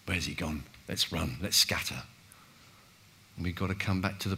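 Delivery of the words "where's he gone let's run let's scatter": mock panic. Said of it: "behave like they did on Good Friday".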